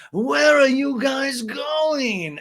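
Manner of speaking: high, slow, drawn-out call across the room; Lisa calling out. Retold or imitated. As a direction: stretch the question out loud and high.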